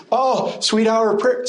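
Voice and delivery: mock wistful sigh. Preacher mocking saved people looking back, a lightly wistful sigh. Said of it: "they're looking back and".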